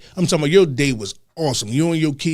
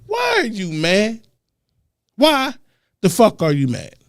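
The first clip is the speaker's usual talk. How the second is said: exasperated shout; 9 semitones higher than usual. Real, not acted. Scolding the audience, higher and louder.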